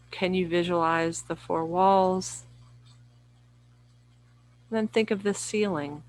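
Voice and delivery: unhurried yoga nidra guidance, long pauses between phrases; guided meditation. Real, not acted. Yoga teacher guiding listeners lying down through relaxation, calm guided meditation. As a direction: lead listeners gently inward, phrase by phrase.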